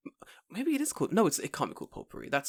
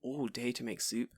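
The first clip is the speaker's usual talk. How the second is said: weary; 3 dB quieter than usual. Retold or imitated. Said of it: "I'm like".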